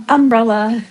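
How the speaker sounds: "umbrella" stressed UM-brella; stress on first syllable. Shown as a demonstration. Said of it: "accent on the first syllable".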